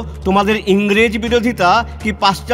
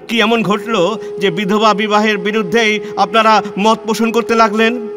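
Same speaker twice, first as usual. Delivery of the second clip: raised, pressing reproach; indignant accusation; 2 semitones higher than usual. Acted. Reformer confronts allies who betrayed him, indignant accusation. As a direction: confront them with rising indignation.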